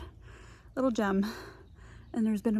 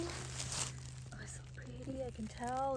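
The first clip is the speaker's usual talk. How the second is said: hushed whisper; 3 semitones higher, 15 dB quieter, slower than usual. Real, not acted. Admiring a chanterelle up close.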